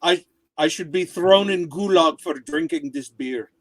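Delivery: attempted Russian accent; amateur comic Russian accent. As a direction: have a go at a light Russian accent. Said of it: "I'll give it a try".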